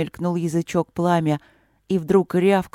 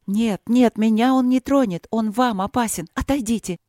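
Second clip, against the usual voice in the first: urgent pleading cry; 5 semitones higher than usual. Acted. Queen forbids guards, frightened.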